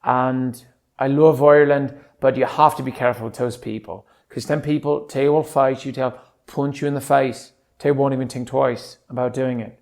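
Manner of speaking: casual Irish lilt; Irish accent. Shown as a demonstration. Man demonstrating his Irish accent, Irish accent. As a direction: talk like a Dubliner, easygoing. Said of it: "that's my Irish accent".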